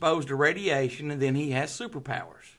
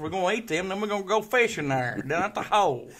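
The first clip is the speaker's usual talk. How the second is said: broad redneck Southern voice; Southern accent; 5 semitones higher, 7 dB louder than usual. Pretend. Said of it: "Do a southern accent for us".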